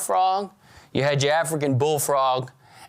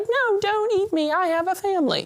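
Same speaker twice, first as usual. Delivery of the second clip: much higher, tiny begging frog; squeaky frog voice; 14 semitones higher than usual. Acted. Frog begs the eater to spare it for its family, squeaky high plea. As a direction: plead like a cartoon frog for its life. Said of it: "this little squeaky voice like".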